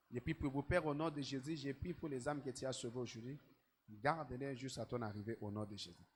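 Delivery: soft, hushed prayer voice; quiet prayer. Acted. Pastor softly leads new converts in prayer, hushed. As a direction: pray low and softly, word by word.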